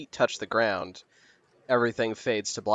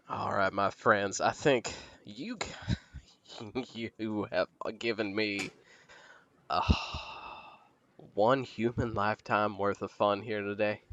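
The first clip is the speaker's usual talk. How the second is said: Maggie voice. Acted. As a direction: purr it like a fond hag. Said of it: "Maggie will be like".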